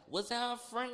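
hammed-up high-pitched question; mock high question. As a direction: squeak it like a wide-eyed kid. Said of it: "I was like".

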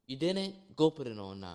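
mother scolding her son to put on cologne; imitating mama. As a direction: boss him like his mama at the door. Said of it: "she smells me".

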